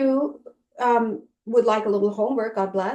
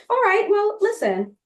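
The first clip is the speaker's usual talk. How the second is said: hammed-up can-do enthusiasm about working on Christmas; playfully over-the-top happy self-talk; cheery positive spin. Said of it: "Make up a different story".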